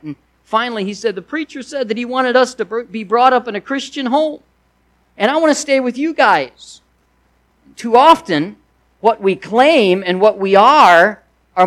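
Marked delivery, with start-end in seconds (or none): 1.1-6.8 put-on upset little boy. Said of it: "Little Johnny was crying".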